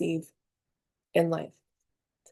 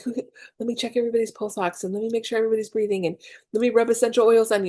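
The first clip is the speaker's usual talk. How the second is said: fast, higher frantic mom; freaking out; 4 semitones higher, much faster than usual. Retold or imitated. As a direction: rush through it like a panicking mother. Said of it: "I started freaking out and panicking".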